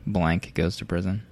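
unvoiced whisper. Real, not acted. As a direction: whisper the joke. Joking whisper echo.

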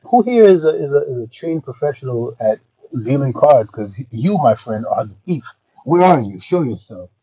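loud, high mock challenge to the room; calling out a classmate thief, loud and high. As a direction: call out the thief like a detective. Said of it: "we were looking, like".

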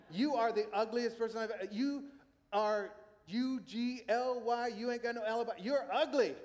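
high, loud cheerleader-like taunt; jeering parrot. Acted. Parrot taunting a pet store customer, loud jeering.

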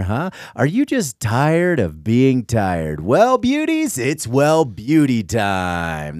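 slow, hammy TV ad pitch; infomercial voice. Pretend. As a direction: sell it like a late-night ad. Spoof drug commercial.

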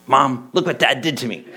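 retelling the daughter's complaint through a laugh; a dad laughing as he quotes his angry little girl. Retold or imitated. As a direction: laugh while imitating her.

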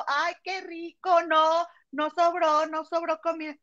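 sing-song taunt meant to be overheard, high and slow; mock shouting gloat. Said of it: "está Nicole Chávez gritando". (burla chillona y lenta, imitando a Nicole)

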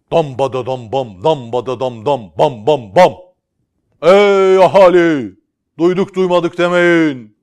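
high, loud, drawn-out crier call; town crier. Acted. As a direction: announce it to the whole town. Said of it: "bir tellal bağırıyor".

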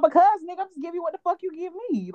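high, loud exasperated retort; retold exasperated answer to partner; exasperated outburst. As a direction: throw it back at him. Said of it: "I'm like".

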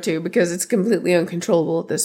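talking with a cold; sniffly head-cold voice; stuffy nose. Real, not acted. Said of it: "a sniffle or two".

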